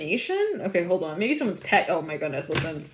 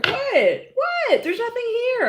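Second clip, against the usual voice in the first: high, squeaky denial; caught off guard; 3 dB louder, slower than usual. Acted. Someone caught hiding things under the mattress, high denial. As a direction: play innocent, too high and too fast.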